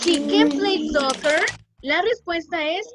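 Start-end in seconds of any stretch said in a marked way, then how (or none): 0.1-1.4 slow, careful model answer. Shown as a demonstration. Teacher giving kids the answer, slow and clear. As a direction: say it slowly for the class. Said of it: "alguien ya me dijo la respuesta".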